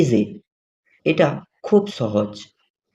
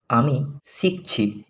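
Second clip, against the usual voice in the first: আমি শিখছি said slower and softer, each syllable spaced; slow careful repeat; 4 dB quieter, slower than usual. Shown as a demonstration. Teacher repeating for learners to copy, slow and soft. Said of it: "teacher models phrase twice".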